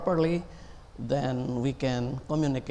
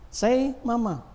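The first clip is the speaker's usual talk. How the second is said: much higher cooing; coaxing a baby; 10 semitones higher than usual. Retold or imitated. Parent coaxing baby's first word, high cooing. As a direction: coax a baby to say Mama. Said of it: "The very first word you teach".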